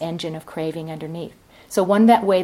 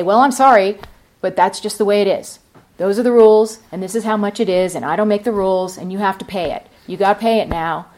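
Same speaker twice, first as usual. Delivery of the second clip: hard, resistant tone; 6 dB louder, faster than usual. Retold or imitated. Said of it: "hardness and resistance".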